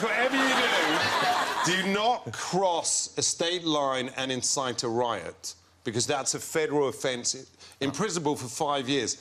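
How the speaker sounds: retold warning in an English voice; English accent. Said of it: "he's gonna be English".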